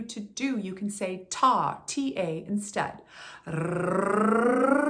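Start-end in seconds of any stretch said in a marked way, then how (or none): 3.5-4.8 a long rolled R buzzing on the tongue; rolled tongue trill. Shown as a demonstration. Coach demonstrating a tongue trill warm-up. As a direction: trill the tongue with a steady loud rrr. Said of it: "tongue trills".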